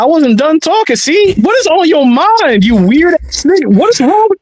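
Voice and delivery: indignant scolding. Real, not acted. Co-host cut off before he was done talking, indignant. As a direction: scold in rising disbelief.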